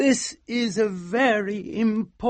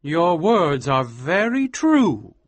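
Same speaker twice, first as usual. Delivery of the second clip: sadly; 5 semitones higher, 5 dB louder, slower than usual. A narrator's reading. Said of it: "said Almer sadly".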